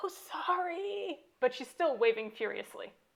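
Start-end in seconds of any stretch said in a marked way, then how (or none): 0.0-1.2 exaggerated stage whisper, pitched up. Narrator voices a character told not to yell, dropping into an exaggerated stage whisper. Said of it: "She drops into an exaggerated stage whisper".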